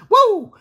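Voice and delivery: high, loud woo; fan's woo after a left; excited whoop. Real, not acted. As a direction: whoop at the punch. Reacting to a punch.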